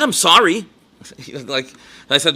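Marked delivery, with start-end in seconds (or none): 0.0-0.7 put-on childish apology. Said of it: "he sounded like a little kid in the park".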